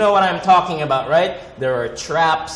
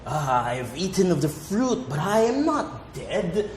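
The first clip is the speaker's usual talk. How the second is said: mock solemn scripture voice; poetic Bible speech; 5 dB quieter than usual. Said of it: "When they talk like".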